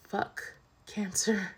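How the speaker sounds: slow, drawn-out whisper; hushed, deliberate swearing; whispered curse. Real, not acted. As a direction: breathe it out slowly as a real curse. Closing curse on her illness.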